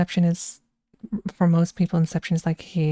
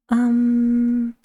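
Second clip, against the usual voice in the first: Bane voice; 5 semitones higher, 4 dB louder than usual. Pretend. Starting the Bane voice.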